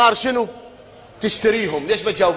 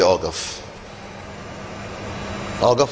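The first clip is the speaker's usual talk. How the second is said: imitated listener; 11 semitones lower, 7 dB quieter, faster than usual. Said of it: "تقول لي".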